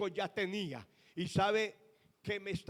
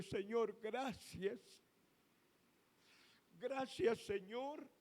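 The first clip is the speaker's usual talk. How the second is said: tearful thanks; 4 semitones higher, 6 dB quieter, slower than usual. Retold or imitated. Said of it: "me fui por toda la calle llorando".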